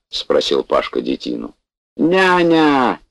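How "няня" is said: high, loud drawn-out call; bellowing for the nurse. Acted. Bored patient yells for the nurse, bellowing call. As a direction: holler down the corridor for the nurse. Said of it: "заорал детина".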